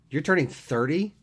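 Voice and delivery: high, loud disbelieving question; can't believe it, loud and high; incredulous. A narrator's reading. Jeremy incredulous about the age.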